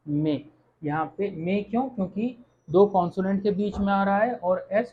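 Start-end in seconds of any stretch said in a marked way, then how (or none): 0.1-0.5 "मे" with an e sound, final s silent; pronunciation demo. Shown as a demonstration. Teacher showing how the French word sounds, demonstrative. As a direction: say "मे" as one open syllable, nothing after it. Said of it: "मेरे pronounce कैसे होगा".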